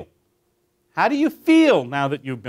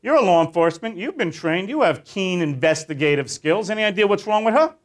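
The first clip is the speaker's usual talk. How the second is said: quizzing the officers; 4 semitones higher than usual. Retold or imitated. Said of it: "And then I'll usually go".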